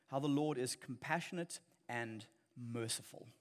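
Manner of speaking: preacher reading James aloud to the church, measured; scripture reading. Real, not acted. Preacher rereads James five to the congregation, solemn reading. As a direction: read the passage with weight. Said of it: "let me just reread James five".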